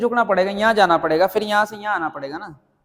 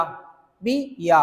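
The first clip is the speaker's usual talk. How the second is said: drawn-out syllables; 3 semitones lower, 4 dB quieter, much slower than usual. Shown as a demonstration. Teacher slowly stretching पी या for students, drawn out. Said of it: "तो यहां पर".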